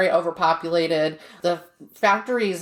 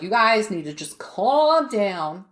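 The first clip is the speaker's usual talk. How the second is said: lightly voiced headmaster; 3 semitones higher, slower than usual. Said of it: "The headmaster was like".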